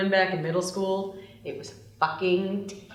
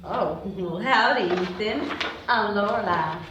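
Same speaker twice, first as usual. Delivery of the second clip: fake Southern drawl. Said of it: "Violet resumes the fake Southern drawl".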